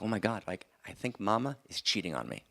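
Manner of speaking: put-on light Yiddish accent, worried father; a touch of Yiddish accent, fretting. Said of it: "in a slight Yiddish accent".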